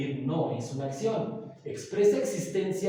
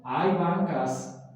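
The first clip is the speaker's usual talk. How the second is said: slow example; much slower than usual. Shown as a demonstration. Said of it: "esta misma palabra".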